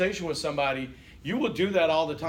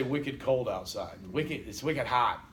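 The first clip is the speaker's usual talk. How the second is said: put-on New England accent; 3 semitones lower, slower than usual. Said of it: "But then they'll say".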